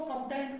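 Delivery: कंपेन with the G sounded near the end; wrong pronunciation. Shown as a demonstration. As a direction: say कंपेन wrongly, letting the G be heard. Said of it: "तो वो गलत पढ़ते हैं".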